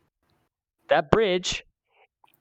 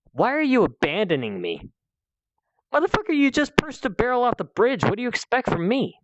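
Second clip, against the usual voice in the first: mock indignant yell; 8 semitones higher than usual. The dynamite pusher's retold outburst.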